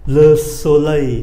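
slow "Le soleil" with no schwa after it; no final schwa. Shown as a demonstration. Teacher warns of no sound behind, no final schwa. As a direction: stretch "soleil" and end cleanly on the glide. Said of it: "không có âm ơ phía sau nhé".

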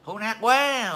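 light mocking imitation of a society-blamer; imitating Dương Chú Cụi. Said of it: "bắt chước mấy thằng Dương Chú Cụi nó nói vậy đó".

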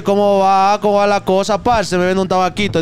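a hint of a Colombian street vendor; Colombian accent. Colombian man at the station asks to buy a cigarette, light Colombian accent. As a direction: greet him like a Colombian seller. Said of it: "uno dice".

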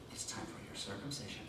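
low, soft menacing announcement; a hint of a villain savoring it; lightly ominous. Sinister nurse announces the circumcision in a low hush.

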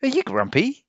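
high, innocent question; small brother asking; curious little ape. A narrator's reading. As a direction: ask it gently. Tim asks.

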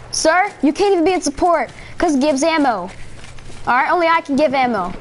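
lightly voiced bossy cop scolding; mock cop. Roleplaying cop ordering a player off a class.

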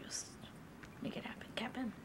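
hushed whisper. Real, not acted. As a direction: whisper playfully. Whispering aside.

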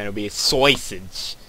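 sausage in a Jersey accent, "sausage" with a broad Jersey vowel. Shown as a demonstration. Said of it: "my Jersey accent".

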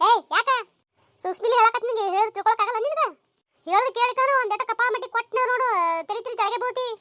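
put-on loud scolding threat to a child; a parent's loud warning; angry threat. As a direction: snap at the kid, threatening.

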